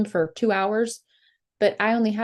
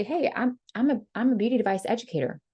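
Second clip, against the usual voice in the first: casual chill pitch. Shown as a demonstration. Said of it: "just be so casual and chill".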